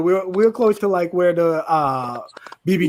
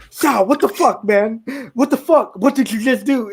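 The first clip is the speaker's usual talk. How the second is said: higher-pitched mock exasperation; retold angry outburst; 5 semitones higher than usual. Cheetah, woken a second time, rounds on Sal, mock anger. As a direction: confront him with hammed-up indignation. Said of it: "so Cheetah's all fucking angry".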